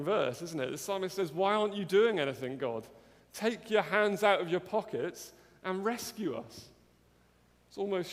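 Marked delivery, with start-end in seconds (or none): 1.3-6.7 raised, fast plea to God; urgent, louder plea; pleading cry. Acted. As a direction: call out to God in urgent complaint. Paraphrasing psalmist's cry to God.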